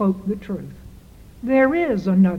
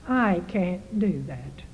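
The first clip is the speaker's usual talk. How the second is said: softer and slow, weighing each word; soft, slow resolve; 2 semitones lower, 7 dB quieter than usual. Acted. Preacher asks congregation to say it, soft and slow. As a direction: say it quietly, as if deciding.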